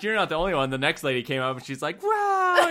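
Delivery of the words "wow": high, loud gasp of amazement; a stranger marvelling at fake rattlesnakes, amazed wow. Lady amazed by fake snakes.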